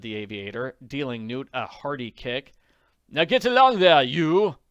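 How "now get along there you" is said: loud, high barked order; rough shout. Acted. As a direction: shove him along. Pilot shoving captive.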